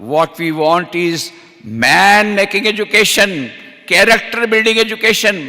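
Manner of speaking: very slow, each word weighed; quoting Vivekananda. Retold or imitated. Preacher quotes Swami Vivekananda slowly to the crowd. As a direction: spell it out solemnly word by word. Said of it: "Swami Vivekananda ने कहा था".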